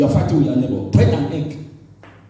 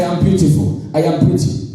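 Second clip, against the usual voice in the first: mock vain woman; 2 semitones lower than usual. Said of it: "Don't say".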